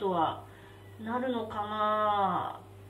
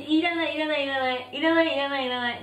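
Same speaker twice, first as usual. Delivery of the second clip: mock panicked refusal. Refuses death sauce, rapid repeats.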